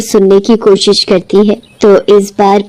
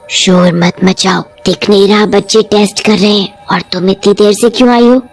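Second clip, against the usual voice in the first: lightly voiced witch; 3 semitones lower than usual. Witch scolds late girl.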